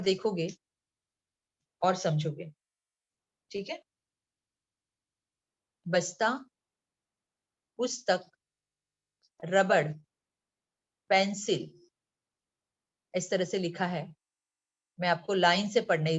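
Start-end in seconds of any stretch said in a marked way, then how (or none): 5.9-11.7 बस्ता, पुस्तक, रबड़, पेंसिल each set apart by a pause; word by word. Shown as a demonstration. Teacher showing pupils how to read the list, word by word. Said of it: "मैं एक एक शब्द पढ़ रही हूँ".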